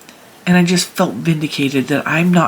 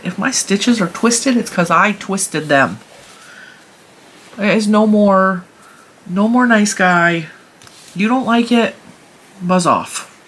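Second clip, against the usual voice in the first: pitched up, fed-up defiance; defiant declaration; 3 semitones higher than usual. Real, not acted. Telling critics of her knitting off, fed-up and defiant. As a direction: tell the critics off for good.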